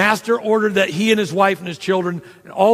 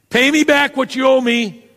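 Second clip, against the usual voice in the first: raised, harsh demand for the debt; 7 semitones higher, 4 dB louder than usual. Acted. Servant demanding payment from his choking debtor, raised and harsh. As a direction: bark it at the debtor. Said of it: "he demanded".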